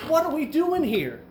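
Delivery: high-pitched imitated grumble; mock complaining. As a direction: whine it like a fed-up complainer. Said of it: "they're complaining".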